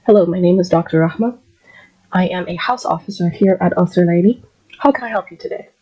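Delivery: calm, clear doctor introducing herself to a patient; polite doctor greeting. Shown as a demonstration. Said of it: "So I'm gonna go first".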